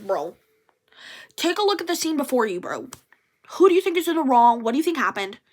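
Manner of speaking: fast, sassy retort; exasperated. Retold or imitated. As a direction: rattle it off fast and sarcastic. Retorting to the boss.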